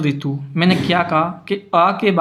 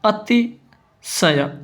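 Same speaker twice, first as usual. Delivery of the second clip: slow sounding-out; 4 semitones higher, much slower than usual. Shown as a demonstration. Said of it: "ऐसे".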